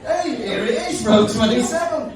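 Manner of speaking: high, drawn-out announcement through laughter; loud, high mock delight; mock triumphant discovery. Acts out his triumphant seat find.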